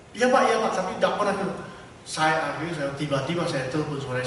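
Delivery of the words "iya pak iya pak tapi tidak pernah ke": higher, louder, eager yes-sir voice; a nervous treasurer saying yes, sir; eager treasurer reply. Retold or imitated. Treasurer answers pastor on phone. (jawaban bendahara yang bersemangat)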